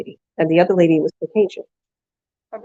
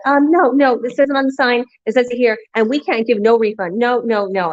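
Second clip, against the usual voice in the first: curt, dismissive refusal; 5 semitones higher than usual. Retold or imitated. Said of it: "she's just shutting me down and talking over me".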